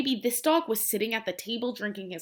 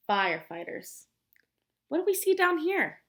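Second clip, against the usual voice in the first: whisper; 5 semitones higher than usual. Acted. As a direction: lean in and whisper it. Teacher suddenly whispering to kids.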